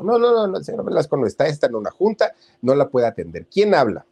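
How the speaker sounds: brusque secretary. Acted. Secretary brushing off nervous mother on the phone, high and curt. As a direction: snap her off the line, no no no.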